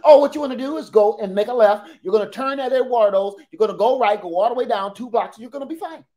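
breezy, bright-voiced directions; a cheery local giving directions; chipper local.

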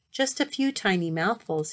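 coaxing. Acted. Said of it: "he coaxed".

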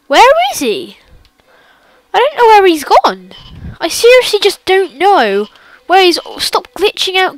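high, loud and frantic; scared, calling out in a rush; panicked. Real, not acted. Frantic search for Slender.

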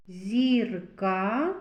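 зірка with the ka set apart and marked; stressed k sound. Shown as a demonstration. Teacher picking out a consonant, marked k in зірка. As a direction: lean on the k in зірка. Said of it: "К твердий приголосний".

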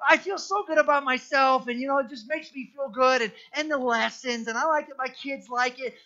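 lightly voiced, complacent church fan; mock churchgoer voice. Preacher does another take of the shallow fan, lightly voiced. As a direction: gush a little about feeling good and the kids liking it. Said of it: "we could do another one".

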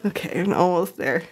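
straining under a heavy pan; strained, holding something heavy; carrying heavy load. Real, not acted. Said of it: "It is heavy".

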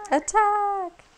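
loud high shout; battle cry. Acted. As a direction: yell it like a charge. Game battle cry after prompt.

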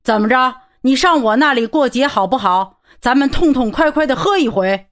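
a big fellow hollering an invitation to drink; loud hearty invite. Acted. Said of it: "亚历山大嚷着".

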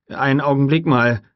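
startled man pleading to wait; startled call. A narrator's reading. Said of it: "rief Gennaro erschrocken". (erschrockener, lauter Ruf)

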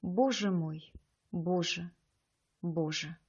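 a narrated cry fading toward the end; mild cry to the heavens, dying away. A narrator's reading. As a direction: call out to the ceiling, then fade. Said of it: "закричала".

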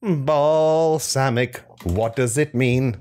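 slow, deliberate words for a voice assistant; talking to voice search. Pretend. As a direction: spell it out slowly for the phone to hear. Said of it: "That's a voice recognition software".

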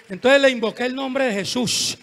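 ordinary talk

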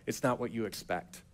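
low, soft, measured reply; unhurried quiet assurance, with pauses; calm Jesus. Acted. Jesus answering the grieving sister on the road, calm. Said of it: "And Jesus is like".

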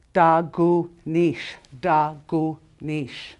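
Da, gu, nish split apart, gu accented; stress on second syllable. Shown as a demonstration. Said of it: "it's always the second syllable".

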